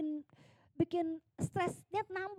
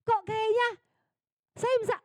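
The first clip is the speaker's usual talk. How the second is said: laughing; 8 semitones higher, 4 dB louder than usual. Real, not acted. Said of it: "Ketawa tante".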